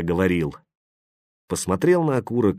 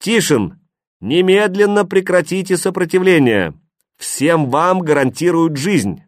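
loud, high, lifeless megaphone voice; cold metallic announcement, no feeling; booming metallic robot; 8 semitones higher, 4 dB louder than usual. A narrator's reading. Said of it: "металлический неживой голос".

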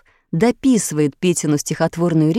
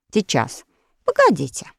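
self-important. A narrator's reading. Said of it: "важно сказал Петя".

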